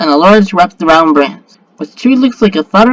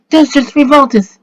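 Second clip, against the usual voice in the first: raised, high battle cry; yell; 7 semitones higher, 3 dB louder than usual. A narrator's reading. Girl yells as the beast lunges, high cry. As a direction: call it out high like a spell. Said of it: "she yells".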